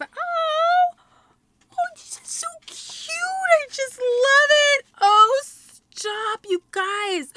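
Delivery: high, delighted gushing; gushing excitement. Real, not acted. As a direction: melt over a tiny gift. Gushing over handmade ornament.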